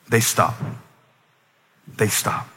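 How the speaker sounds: whispered, dropping away to nothing; hushed whisper. Acted. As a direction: let it fall to a whisper. Repeated climax, dropping to hush.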